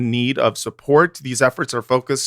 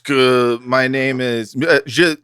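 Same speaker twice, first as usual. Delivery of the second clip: fake French; slower than usual. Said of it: "I'll be your world's most moral co-host, but Frenchly".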